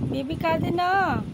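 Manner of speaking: put-on slow, each word drawn out for the baby; slow coaxing phrase. Shown as a demonstration. Mother teaching baby the phrase, slow and coaxing. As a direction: coach the baby word by word, slowly. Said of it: "দাও বেবিটাকে দেখাই সবাইকে".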